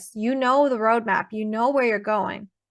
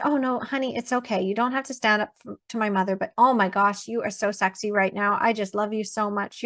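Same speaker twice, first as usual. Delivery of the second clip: lightly voiced, softer, tender and doting; softly adoring wife; 2 semitones lower, 3 dB quieter than usual. Wife swooning softly at her partner after he stands up for her. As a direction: coo at him like he's your hero.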